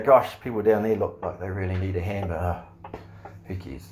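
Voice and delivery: a light, careless shrug that fades to a mumble; mock apathy. Preacher mocks an apathetic Jesus, fading shrug. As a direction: toss it off, trailing into indifference. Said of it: "sit in heaven and go".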